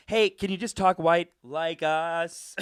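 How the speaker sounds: slow, mocking parody. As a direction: drawl it like a smug article. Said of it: "Huffington Post was like".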